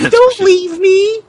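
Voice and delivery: crying plea. Acted. Abandoned woman begging him not to leave, tearful. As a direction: sob out the plea. Stefan begs again.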